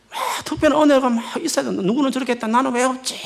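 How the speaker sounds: high, strained mock worry; put-on anxious complaint, pitched high; overly serious fretting. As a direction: imitate a believer agonising over missing out. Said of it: "좀 심각하게 신앙생활 하는 사람들".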